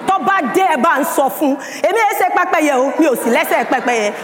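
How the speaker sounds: put-on defiant child's message. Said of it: "I gave the message to the mother".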